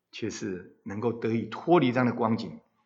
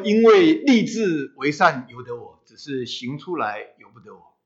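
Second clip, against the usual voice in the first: retold outcry; 5 dB louder than usual. Preacher quoting apostle Paul's struggle, mild outcry easing off. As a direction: start as a mild cry, then let it drop. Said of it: "他曾经这么呐喊".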